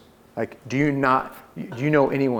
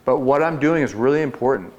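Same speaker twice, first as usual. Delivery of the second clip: higher and louder, sure of himself; confident door voice; 5 semitones higher, 3 dB louder than usual. Shown as a demonstration. Salesman showing reps how he sounds at doors, confident. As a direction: speak like what you say really matters. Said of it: "I talk like this".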